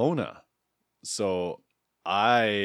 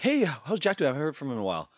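cheery friend; 5 semitones higher, faster than usual. Retold or imitated. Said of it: "And she's like".

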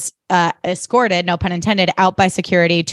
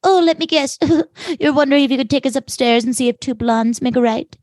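higher, amused mocking tone; mocking Serena; 5 semitones higher than usual. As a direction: toss it off with a knowing laugh. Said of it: "Serena's like".

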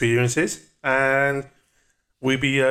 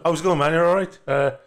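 pretentious party guy; 7 semitones higher, 3 dB louder than usual. Retold or imitated. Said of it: "most fucking pretentious cunt I could have been".

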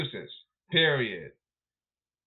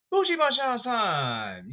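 hype call; 8 semitones higher, much slower than usual. Acted. Hyping a player's moment.

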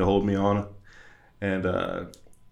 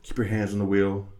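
calming self-talk; 6 dB quieter than usual. Retold or imitated. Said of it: "I sit there, and I'm like".

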